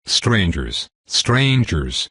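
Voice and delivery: a bird voice, ruffled and upset; mild squawking parrot warning off strangers; agitated parrot squawk. Acted. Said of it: "An avian voice squawked in agitation".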